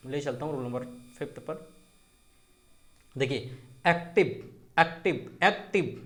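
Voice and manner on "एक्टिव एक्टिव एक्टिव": "एक्टिव" split as ऐक-टिव each time; two punched beats in "एक्टिव"; pause inside word. Shown as a demonstration. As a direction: repeat "एक्टिव" with a slight gap before टिव. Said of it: "बीच में थोड़ा सा pause होगा".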